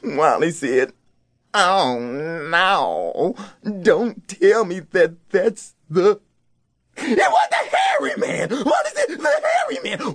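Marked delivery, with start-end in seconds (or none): 1.5-6.2 slow, fearful, half-crying dread; a child dreading what he sees; frightened dread. Acted. Wally sees the hairy man. 7.0-10.1 shrieking, much higher and crying; a boy screaming at the monster; terrified scream. Acted. Wally spots the monster.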